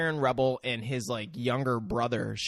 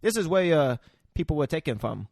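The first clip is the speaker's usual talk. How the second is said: put-on Karen rebel accent. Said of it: "the rebel was like".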